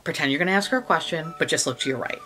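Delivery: low, hushed orders to a colleague; brief them discreetly, under the radar; secretive instruction. Retold or imitated.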